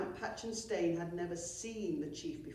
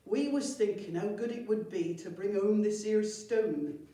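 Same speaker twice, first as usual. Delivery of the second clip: goblin voice; 3 semitones higher, 8 dB louder than usual. Acted.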